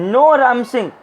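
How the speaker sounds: storyteller's understated panicked protest; nervous shout. Acted. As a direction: call out in acted alarm. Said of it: "shouted nervously".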